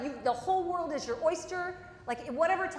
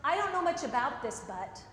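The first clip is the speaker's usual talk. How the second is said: self-effacing. Shown as a demonstration. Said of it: "Self-effacing remarks".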